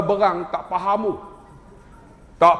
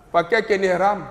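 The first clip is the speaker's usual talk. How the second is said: usual speaking voice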